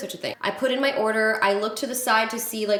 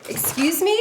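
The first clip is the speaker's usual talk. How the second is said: high, sharp "excuse me?"; shocked at the audacity; outraged disbelief; 8 semitones higher than usual. Real, not acted. Reacting to being made to pay.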